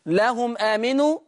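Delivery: لهم آمنوا: ميم لهم موصولة ممدودة; أشبع ميم لهم قبل آمنوا; صلة ميم الجمع بالإشباع. Shown as a demonstration. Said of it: "الإشباع قولا واحدا". (لهمو آمنوا بالإشباع)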